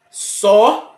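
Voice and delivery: Sozinho, with the middle syllable ZI lifted; syllables sounded out. Shown as a demonstration. Teacher demonstrating where the stress falls in Sozinho. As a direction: say Sozinho lifting the ZI.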